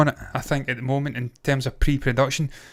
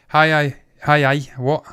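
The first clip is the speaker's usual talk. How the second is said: accidental slide into Geordie; Geordie accent; 4 dB louder than usual. Acted. Co-host stumbling over his words, slipping into Geordie. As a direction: slip into a mock Geordie lilt. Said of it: "I'm doing Geordie again".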